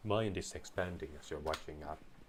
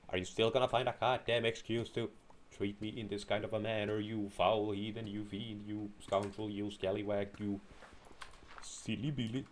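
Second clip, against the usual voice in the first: mock angry rant; 3 semitones higher than usual. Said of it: "I'm in fact rather angry".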